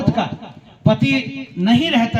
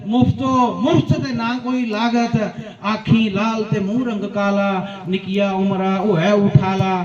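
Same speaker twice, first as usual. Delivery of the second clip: poem recitation. Acted. Poet finishes drunkard's stanza, rhythmic recitation.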